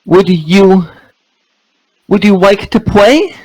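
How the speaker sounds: put-on high, sugary cutesy baby talk; squeaky cute uwu voice. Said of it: "Do it in the uwu voice".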